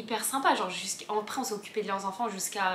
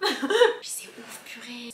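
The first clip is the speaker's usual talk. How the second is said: laughing amazement; much slower than usual. Real, not acted. Telling her friend the story, slow and laughing. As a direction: laugh it out in disbelief.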